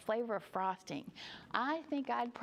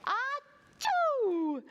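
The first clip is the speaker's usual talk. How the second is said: loud, high storybook achoo; hammed-up bear sneeze; huge sneeze; 7 dB louder than usual. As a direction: explode into a big acted sneeze.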